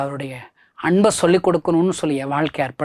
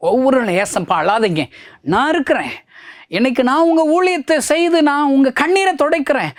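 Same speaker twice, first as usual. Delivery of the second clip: full-force preaching; 9 semitones higher than usual. Acted. Preacher promising to wipe Jesus's tears, pleading full-force cry.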